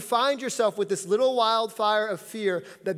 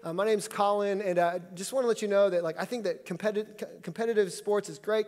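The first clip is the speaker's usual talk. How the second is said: cordial; 4 dB quieter than usual. Retold or imitated. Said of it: "introduce myself and I say".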